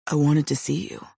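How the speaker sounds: muffled. A narrator's reading. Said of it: "his voice muffled by my hair".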